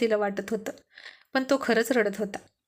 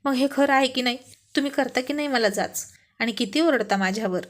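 mild, smiling tease on purpose; wife gently teasing her husband, playful; 2 semitones higher than usual. Acted. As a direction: poke fun at him lightly, half laughing. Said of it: "थोडी हसली आणि मुद्दाम म्हणाली".

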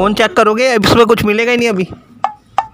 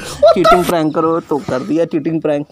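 laughing explanation; 4 semitones lower than usual. Real, not acted. Telling his wife why he pranked her, laughing.

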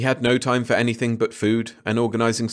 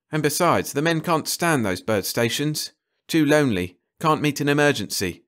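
lightly voiced, often higher-pitched expert; brisk ecologist; 4 semitones higher than usual. Carter reporting on the bird stations, businesslike. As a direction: rattle off problems in short phrases.

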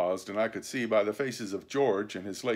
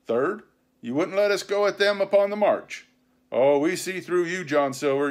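high, loud, aggrieved pirate; accusing pirate mutineer; 7 semitones higher, 6 dB louder than usual. A narrator's reading. Mutineer listing the crew's grievances to Silver, accusing. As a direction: hammer out each charge.

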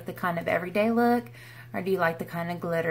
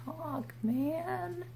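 tongue-tied; 8 semitones higher, 9 dB quieter than usual. Real, not acted. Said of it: "I can't talk".

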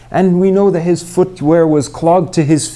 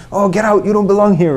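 mock shouting; 4 semitones higher than usual. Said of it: "shouting and yelling".

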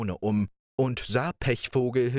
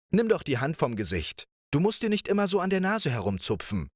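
put-on higher, lively girlish voice; playful princess; 4 semitones higher, faster than usual. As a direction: coax him like a carefree young princess. Princess teases and plans.

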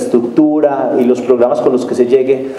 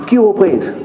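put-on sharp, much higher shout at a toddler; energetic yell; 7 semitones higher than usual. Father yelling hard at his toddler son, retold yell. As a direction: bark the words out like a startled father. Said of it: "le grité fuertemente a mi hijo".

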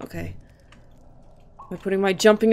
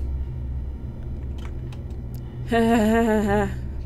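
drawn-out, quieter laugh; long laugh; 6 dB quieter than usual. Acted. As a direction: let out a long trailing laugh. Reacting within the acted monologue.

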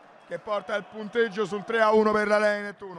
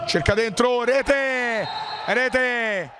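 breathless italian goal commentary; 4 semitones higher, much slower than usual. Real, not acted. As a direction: burst out as the ball hits the net. Goal scored in live match.

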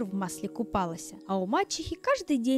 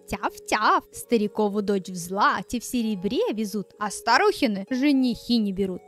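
little dog voice; 4 semitones lower, 3 dB louder than usual. Acted. Dog barks prophecy.

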